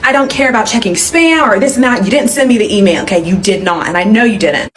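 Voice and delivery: retold exasperation, firm without shouting; fed up. Client demands refund from braider, fed-up insistence. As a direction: insist like someone done with excuses. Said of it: "I am done with her bullshit".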